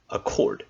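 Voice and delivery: Accord with stress on the second syllable, ac-CORD; demo accord. Shown as a demonstration. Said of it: "the stress is usually not there".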